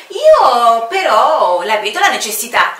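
loud, insistent counter with stress on "Io"; loud stubborn commander; firm retort. Acted. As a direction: push back hard: "Io però la vedo". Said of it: "ribatté il comandante".

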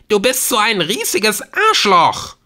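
loud, high-pitched angry cut-in; furious outburst. Acted. Girlfriend cutting off the caller, furious outburst. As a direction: hurl the insult at full force. Claire cuts Nick off, insulting him.

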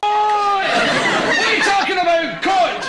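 exasperated mother's call, laughing through it; mother shouting back. Retold or imitated. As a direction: scold the kids across the house. Mother yelling back at kids.

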